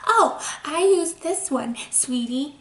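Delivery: a hint of a syrupy, doting mom; mock-sweet parent calling you sweetie; sugary mom voice. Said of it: "My mom doesn't talk like that".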